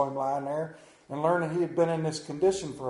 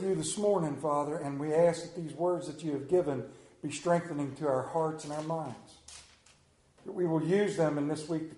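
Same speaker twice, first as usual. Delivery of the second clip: prayer; 2 semitones lower than usual. Acted. Leads congregation in prayer.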